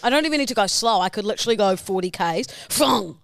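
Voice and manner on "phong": car whoosh noise. Retold or imitated. Imitating car speeding into garage.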